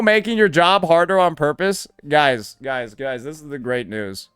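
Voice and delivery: normal talking voice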